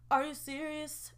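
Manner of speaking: a hint of a singer's crooning; lightly voiced singer impression; mock-serene singer croon. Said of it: "In my singer voice".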